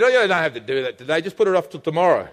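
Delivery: lightly voiced lazy coaxing; a hint of a lulling tempter; tempting inner voice. The little voice in his head urging delay, mild coax. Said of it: "the little thing in my head".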